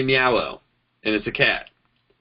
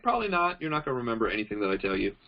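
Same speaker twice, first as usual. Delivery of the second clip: much softer, fast deadpan brush-off; dry aside; 9 dB quieter, much faster than usual. Retold or imitated. Turning down a drunk friend's call, soft fast brush-off. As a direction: mutter it quickly under your breath.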